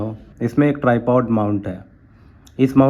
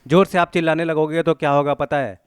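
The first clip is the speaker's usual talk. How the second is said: high demo shout at a normal volume; a recovered shout, raised voice without the blast; shout turned down; 4 semitones higher than usual. Shown as a demonstration. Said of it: "मैं चिल्लाया तो कैसा सुनाई दे रहा था".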